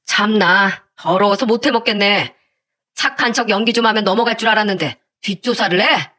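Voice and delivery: lightly acted scornful sneer; a touch of mocking contempt. Exposed fiancé to the girl's mother, mildly sneering. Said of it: "갑자기 저한테 비아냥거리며 말했습니다".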